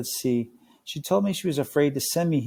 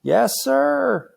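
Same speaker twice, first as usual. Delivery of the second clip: timid yes sir; 13 semitones higher, 5 dB louder than usual. Acted. Frightened satyr answering director.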